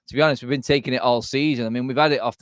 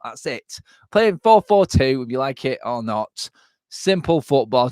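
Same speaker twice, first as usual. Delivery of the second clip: imitated manager at his wit's end; fed up; 3 dB louder than usual. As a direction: act out a man who has had enough. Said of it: "absolutely just fed up".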